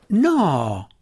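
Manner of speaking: a loud, high No; loud protest. A narrator's reading. Belwar loudly protesting against Drist's leaving. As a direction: refuse outright, bursting in. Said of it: "protestò Belwar".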